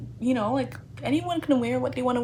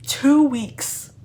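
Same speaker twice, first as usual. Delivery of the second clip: loud, higher stunned disbelief; shocked; 5 semitones higher, 6 dB louder than usual. Real, not acted. Reader learning prom is in two weeks, loud shock. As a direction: say it like the floor dropped out.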